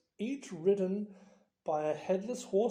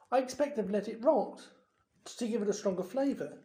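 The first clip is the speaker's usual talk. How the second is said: knowledgeable; 3 semitones higher, faster than usual. Acted. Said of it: "said Hermione knowledgeably".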